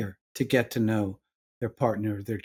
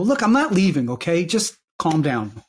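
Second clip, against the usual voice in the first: impatient reassurance; 3 semitones higher, 3 dB louder than usual. Retold or imitated. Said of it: "I'm still gonna go".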